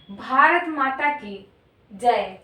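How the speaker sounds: slow slogan with the weight on the last word जय; slogan demo with जय stressed. Shown as a demonstration. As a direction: lean into जय at the end of भारत माता की जय. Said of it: "जो जय है, सबसे आखिरी वाले शब्द पर जो है बल दिया गया है".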